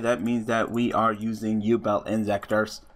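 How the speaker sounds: slightly robotic, processed-sounding voice; half robot voice. Real, not acted. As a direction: talk like a half-glitched robot. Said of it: "Why do I sound like a robot?".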